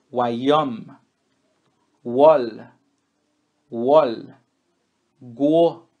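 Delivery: each example with W said like U; French W as U sound. Shown as a demonstration. Teacher drills students on the French W sound. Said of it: "Vamos ver exemplos do W".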